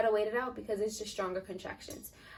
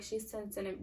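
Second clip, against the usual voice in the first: whispering; 7 dB quieter than usual. Retold or imitated. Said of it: "she tried to whisper".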